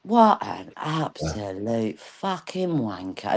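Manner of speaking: slow, drawn-out dad-style curse; a hint of dad, unhurried and low-key. Recalling how dad would curse, slow and drawn out. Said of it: "just like my dad would say it".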